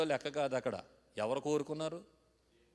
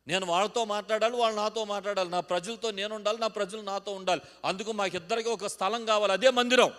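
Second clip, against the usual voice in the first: higher, louder preaching building to a shouted climax; fervent preaching; 6 semitones higher, 9 dB louder than usual. Acted. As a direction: preach it out, rising to a cry. Preaching at full force.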